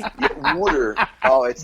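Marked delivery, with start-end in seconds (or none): 0.6-1.0 South Jersey "water" as "wooder"; South Jersey "water" again; South Jersey accent. Shown as a demonstration. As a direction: repeat "water" in the Philly way. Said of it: "that's how they talk".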